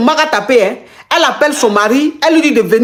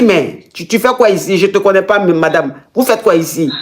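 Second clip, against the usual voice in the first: lightly voiced husband; 5 semitones lower than usual. Man denies knowing caller.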